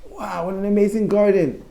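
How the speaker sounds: high-pitched awed exclamation; wide-eyed amazement, as if read to children; wowed story character. Acted. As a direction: voice a storybook toad marveling. Toad admiring Frog's garden.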